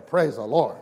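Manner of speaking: loud praise. Retold or imitated. Pastor keeps imitating a fervent brother's praise, loud. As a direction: shout it out with full conviction. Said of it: "I tell you, it's a".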